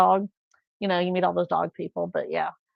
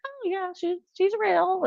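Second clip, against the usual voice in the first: high, soft mock-sweet reply; retold reassurance; 10 semitones higher, 5 dB quieter than usual. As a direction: lightly play a gentle explanation.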